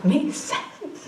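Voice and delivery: half-laughing mock outrage at the son's accusation; mock indignant surprise. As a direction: act outraged but amused.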